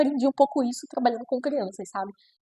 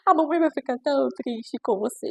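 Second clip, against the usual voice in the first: put-on higher, very slow begging to the child; mock pleading parent; 6 semitones higher, slower than usual. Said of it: "o permissivo vai implorar".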